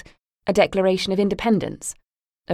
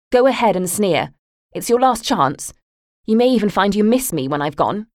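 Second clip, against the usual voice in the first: louder, higher furious retort; angry retort; 4 semitones higher, 5 dB louder than usual. Acted. Daughter snapping at her mocking mother, louder and angry. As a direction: fling it back at her, hurt and angry.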